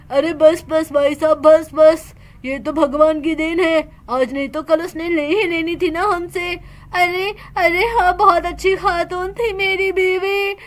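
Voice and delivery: calm the grieving man down gently; elder urging the husband to be strong; consoling older man. Acted.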